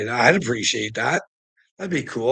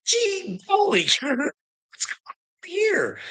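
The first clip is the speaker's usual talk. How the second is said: much higher, startled exclaim; high shocked gasp at the sign; shocked disbelief. Real, not acted. Man finds a no trespassing sign, high shocked outcry.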